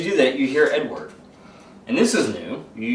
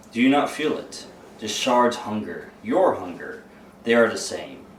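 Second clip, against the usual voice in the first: demonic voice. Acted. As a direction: speak as the demon inside him, lightly voiced. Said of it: "it's like that demonic voice".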